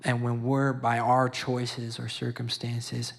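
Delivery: rising preacher's emphasis; preaching. Real, not acted. Father preaching about God's love, fervent preaching. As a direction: preach it to the listeners, pressing the point. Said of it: "I'm sorry, I'm preaching".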